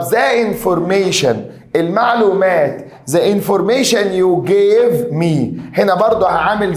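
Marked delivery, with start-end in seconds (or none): 0.0-1.4 slow, deliberate read of an exam phrase. Shown as a demonstration. Teacher reading the exam phrase to students, slowly. 3.1-5.6 each word drawn out slowly; slow reading. Shown as a demonstration. Teacher reading an exam sentence aloud, very slowly.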